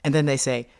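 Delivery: plain reading voice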